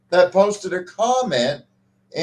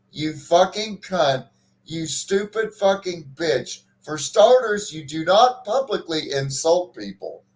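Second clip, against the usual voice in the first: retold insult. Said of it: "This guy literally said in the same breath".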